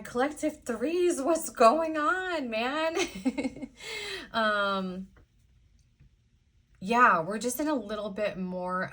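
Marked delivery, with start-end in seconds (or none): 0.0-2.9 higher, louder and slow, mock alarm; dismayed exclamation. Real, not acted. Startled by the heavy reading. 3.0-4.3 short high giggle at herself; high embarrassed giggle. Real, not acted. Laughing at own reaction.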